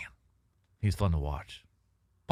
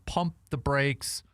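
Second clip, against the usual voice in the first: announcer call; 6 semitones higher, much slower than usual. Acted. Host calls the segment title.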